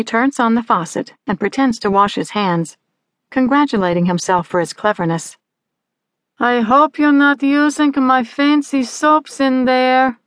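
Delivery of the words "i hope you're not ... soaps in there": high, slow mother's holler. A narrator's reading. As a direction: call out suspiciously from the kitchen. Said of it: "she hollers this time".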